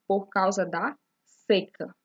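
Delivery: seca said slowly with a closed ê. Shown as a demonstration. (seca com ê fechado, devagar)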